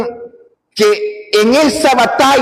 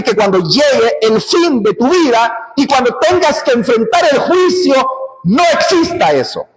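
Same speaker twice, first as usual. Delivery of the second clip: fervent pulpit shout; preaching shout; 4 semitones higher than usual. Real, not acted. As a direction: raise the voice in warning. Preacher challenges listener.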